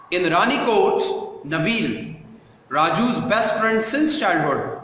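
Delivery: measured sample reading with pauses at phrases; textbook read-aloud. Shown as a demonstration. Teacher reading the story to a class, measured read-aloud. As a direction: read it out carefully for pupils following along.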